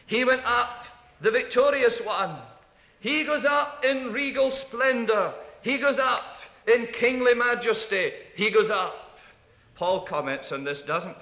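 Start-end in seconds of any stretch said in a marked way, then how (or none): 0.0-9.2 triumphant proclaiming. Acted. Proclaiming Christ's regal ascension.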